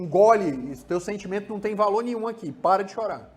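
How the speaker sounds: put-on father telling the boy to swallow his feelings; repressive father. Shown as a demonstration. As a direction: push the feeling down hard. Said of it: "Tipo assim".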